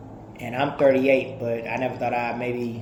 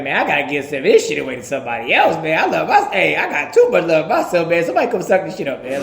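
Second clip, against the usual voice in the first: playful boast; 5 dB louder, faster than usual. Retold or imitated. Acting out self-loving person.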